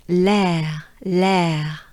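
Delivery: "l'air" with a French accent. Shown as a demonstration. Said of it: "more French accent".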